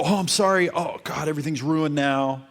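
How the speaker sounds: imitating a nervous boyfriend apologizing; mock flustered apology. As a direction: mimic a guy who thinks he blew it. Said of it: "Don't go".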